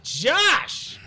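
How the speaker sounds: high, impressed exclamation of a name; amazed shout. Real, not acted. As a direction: cry out in delighted disbelief. Calling out after the chug.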